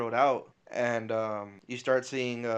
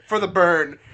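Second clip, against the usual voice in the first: laughing quote; 6 semitones higher, 12 dB louder than usual. Retold or imitated. Tony's line retold.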